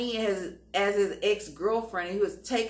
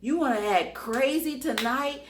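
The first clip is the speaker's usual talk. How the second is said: mild mock yell; 5 semitones higher than usual. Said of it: "I was screaming at him".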